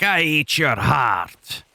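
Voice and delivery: slow, hammy giant monster growl; terrible monster voice acting. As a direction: ham up a towering brute. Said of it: "Terrible voice acting".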